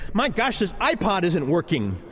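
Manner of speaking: mildly whiny gripe about a gadget; petty frustrated grumble, imitated; mock complaining. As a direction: complain as if fed up, half-joking. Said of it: "that mode sometimes where we complain".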